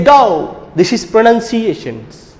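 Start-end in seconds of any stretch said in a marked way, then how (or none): 0.0-0.6 "Go" with a gliding "oh-oo" vowel; British pronunciation. Shown as a demonstration. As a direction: glide the vowel of GO. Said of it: "They say".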